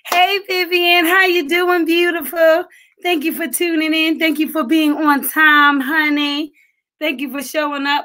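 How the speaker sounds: light up and welcome her warmly; sing-song welcome, pitched well up; excited greeting. Real, not acted. Greeting a viewer who just joined.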